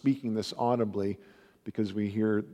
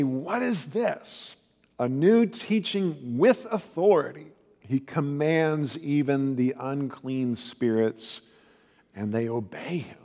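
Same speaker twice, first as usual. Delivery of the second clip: higher, astonished voice of the crowd; preacher voicing the amazed crowd in Capernaum, astonished; 3 semitones higher than usual. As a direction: marvel at it like a stunned onlooker. Amazed crowd quoted in scripture.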